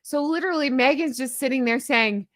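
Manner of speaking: ordinary delivery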